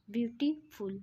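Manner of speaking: "ब्यूटीफुल" divided as ब्यूटी and फुल; syllable split. Shown as a demonstration. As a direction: show the parts of "ब्यूटीफुल", pausing before फुल. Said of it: "इसमें दो syllables हैं".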